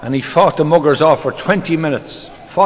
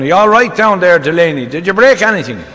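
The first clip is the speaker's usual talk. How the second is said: mock shout, raised and louder at first; 3 semitones higher, 3 dB louder than usual. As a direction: call down to someone in a well. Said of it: "O'Sullivan shouted down".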